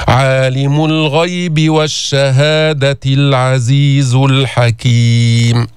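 very slow chanted tajweed recitation; slow Quran recitation. Shown as a demonstration. Teacher recites the full verses for students. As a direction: draw each word out. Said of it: "teacher models the verses".

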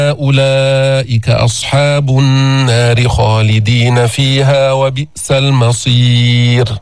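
slow, measured tajweed chanting; Quran recitation. Shown as a demonstration. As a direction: recite carefully as a model for the class.

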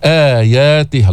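آياته with آ held for two beats; slow آياته, long first vowel; two-beat madd. Shown as a demonstration. Teacher models آياته madd length. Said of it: "آ، هكذا يلفظ".

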